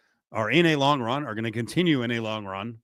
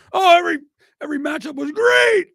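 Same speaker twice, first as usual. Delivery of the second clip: very high, exaggerated shout of delight; mock gushing; 6 dB louder than usual. Host mimicking fans of seventies matchups, gushing in a high shout. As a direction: gush loudly, pitched way up.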